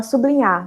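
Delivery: "sublinhar" with b and l blended as su-bli-nhar; colloquial pronunciation. Shown as a demonstration. Teacher shows how people often say it, blended su-bli-nhar. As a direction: run the "bl" together in "sublinhar". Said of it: "e não sublinhar".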